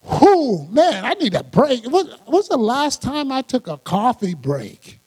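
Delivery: mock worn-out complaint with a big sigh of a start; exasperated, overworked griping, put on; weary complaint. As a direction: play at needing a break, hammed-up. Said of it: "a God that's like".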